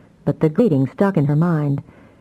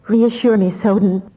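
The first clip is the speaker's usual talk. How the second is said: higher, hopeful plea; desperate plea; 4 semitones higher than usual. Acted. Damia pleading with Soden for reassurance, desperate. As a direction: beg him to reassure you. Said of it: "Damia pleaded, desperately, hopefully".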